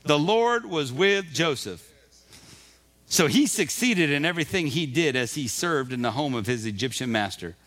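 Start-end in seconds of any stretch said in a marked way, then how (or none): 0.0-1.8 slowed right down, each word weighed; slow emphatic reread. Shown as a demonstration. Pastor rereading the verse to his congregation, slow and deliberate. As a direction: let every word of the verse land. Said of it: "Verse two".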